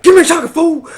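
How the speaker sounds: high, loud imitated outburst; sudden mad yell. Chitanda suddenly yelling at the astronomy club in an imitated angry outburst. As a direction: snap it out like she's lost it. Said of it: "she got all mad all of a sudden".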